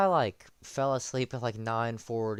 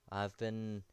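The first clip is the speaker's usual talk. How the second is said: sincere; 8 dB quieter than usual. Real, not acted. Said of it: "why do I sound so sincere".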